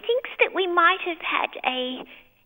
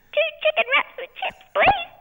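high, raised-voice mock yell; imitated yelling; 10 semitones higher, 3 dB louder than usual. Mel imitates Max at the drive-through, yelling. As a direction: call it out like a husband yelling an order. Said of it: "he kept yelling".

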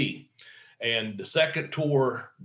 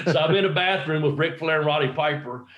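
laughing; 3 semitones higher than usual. Real, not acted. Amused at meeting Flair and Piper.

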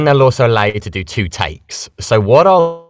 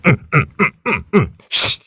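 short, higher grunts of exertion, then a shush; knife-fight effort noises; 6 semitones higher than usual. Shown as a demonstration. Voice actor demonstrating a knife fight, effort grunts. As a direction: grunt through quick stabbing moves. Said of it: "You can be like".

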